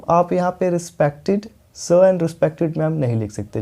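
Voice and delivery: each word spelled out slowly; slow emphatic warning. Shown as a demonstration. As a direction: drive the warning home word by word. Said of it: "एक बात और बता दूं".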